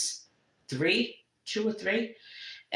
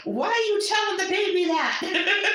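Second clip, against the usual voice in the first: higher, louder outraged scolding; mock scolding aunt; 13 semitones higher, 3 dB louder than usual. Aunt scolding uncle for scaring the baby, outraged. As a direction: scold him like a shocked aunt.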